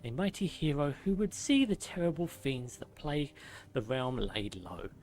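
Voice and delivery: measured documentary-style reading, sinking softly at the ends; lore narration. Acted.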